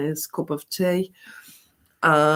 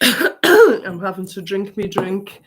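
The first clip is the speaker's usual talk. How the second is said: talking through a sore throat; scratchy-throated after coughing; 2 semitones higher, 3 dB louder than usual. Real, not acted. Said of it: "I've got quite s-, a sore throat".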